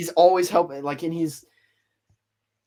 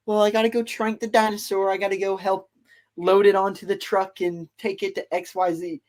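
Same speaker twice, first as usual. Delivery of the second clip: higher-pitched, mock eagerness; eager dinosaur enthusiast; 4 semitones higher than usual. Passionate dinosaur fan imagining his dream job, acted eagerness. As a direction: lightly act out naive enthusiasm. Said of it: "he's just really passionate about dinosaurs".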